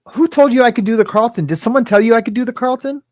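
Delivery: high, playful disbelief; mock surprise. Real, not acted. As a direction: act caught out, teasingly amused. Viewer asks him to dance.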